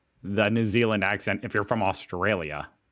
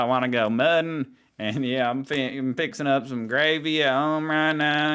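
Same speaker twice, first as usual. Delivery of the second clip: put-on Southern accent; 2 semitones higher than usual. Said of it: "around someone with a strong Southern accent".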